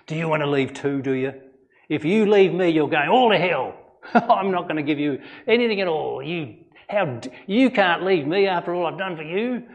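playing a pushy, wounded Jesus as the wrong way to ask; mock guilt-tripping Jesus. Shown as a demonstration. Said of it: "No, he didn't say that".

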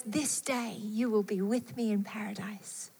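soft, unvoiced tender whisper; whispered promise. Jesus whispering to the dying thief, tender whisper. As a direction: hush it like a gift.

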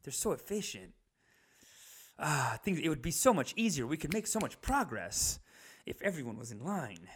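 soft, hushed swooning reverie; murmured mock longing; mock admiration. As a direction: imitate someone secretly enamored, sighing dreamily. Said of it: "kind of being like".

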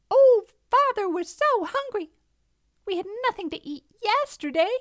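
high, loud cub complaint; whining little fox. A narrator's reading. Hungry little fox begging father, whining.

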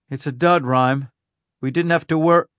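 relieved exclaim. Acted. Amelia tells Rhyme the battery is a dud, relieved. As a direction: let the relief burst out.

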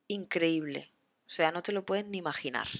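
usual speaking voice

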